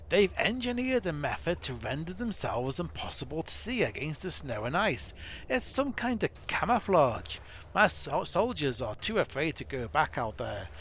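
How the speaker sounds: a gruff dwarf leader, mock accent, urgent; dwarf commander. Dwarf captain warning Gwinion of disaster, in a mock dwarf accent. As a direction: warn the hero of disaster like a worried dwarf captain.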